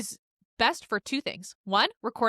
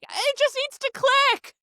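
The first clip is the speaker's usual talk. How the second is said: tearful plea; 4 dB louder, slower than usual. Retold or imitated. Retold panicked plea to clerk.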